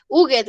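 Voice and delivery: "Juguet" read as Spanish, two syllables; silent-H Spanish reading. Shown as a demonstration. Teacher mimicking beginners who don't know sounded H, Spanish reading. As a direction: say "Juguet" as spelt in Spanish, ending in a full "ed". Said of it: "no conocemos la H con sonido".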